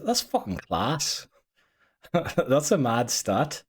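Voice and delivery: drawn-out Northern Irish lilt, slowly; playful, slow Northern Irish slang; Northern Irish accent. Pretend. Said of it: "we're gonna talk in my accent".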